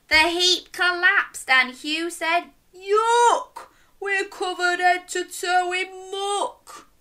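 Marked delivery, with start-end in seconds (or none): 2.7-6.9 high-pitched cry of disgust. A narrator's reading. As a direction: wail it, grossed out and drawn out. Disgusted character in story.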